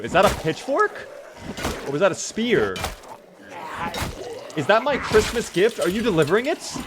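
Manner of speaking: mock excited. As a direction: greet the zombie's spear like a present. Mock delight at zombie's spear.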